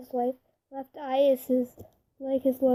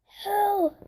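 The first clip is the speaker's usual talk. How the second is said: sharp yelled curse, pitched up; retold scream; 7 semitones higher than usual. A narrator's reading. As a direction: cry out in pain from downstairs. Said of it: "you hear Sean scream".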